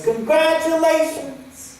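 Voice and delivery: high, drawn-out cry of praise; exultant call. Retold or imitated. A voice in the night congratulating him, proclaimed. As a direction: ring it out slowly.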